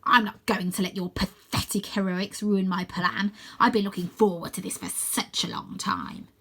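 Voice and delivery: sneering villain, sinking to a whisper; villain gloats, ending in a whisper; gloating villain. Acted. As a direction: relish every word of the plan. Croaky gloats.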